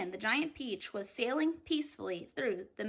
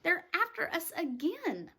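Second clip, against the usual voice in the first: higher, anxious insistence; fearful; 6 semitones higher than usual. Acted. Miss Spider fearing the cloud men, anxious and higher. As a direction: plead it, certain they are in danger. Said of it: "Miss Spider cried".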